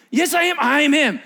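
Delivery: high, loud protest; beggar insisting. Acted. Healed beggar crying out to neighbors, high and loud. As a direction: plead it out over them.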